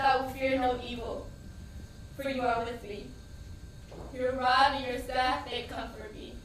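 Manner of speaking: steady recitation, holding on to the words; reciting a psalm. Retold or imitated. Praying the psalm over her wounded son, measured recitation. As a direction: recite it like a prayer over him. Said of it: "I started to recite scriptures".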